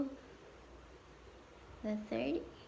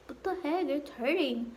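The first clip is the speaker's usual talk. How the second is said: high-pitched retold cry of pain, slightly louder; shocked outcry; 5 semitones higher, 4 dB louder than usual. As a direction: yelp it out as if it hurts again. Retelling pain as nurse squeezes.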